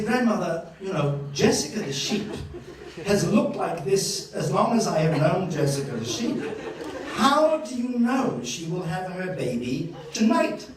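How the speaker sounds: mildly exasperated, incredulous challenge; mock disbelief. Grandchild doubts grandmother about the sheep, mock disbelief. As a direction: question granny like a doubting grandchild.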